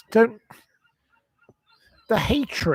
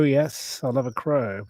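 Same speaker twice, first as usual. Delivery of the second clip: fond murmur; 3 semitones lower than usual. Real, not acted. Repeats it softly.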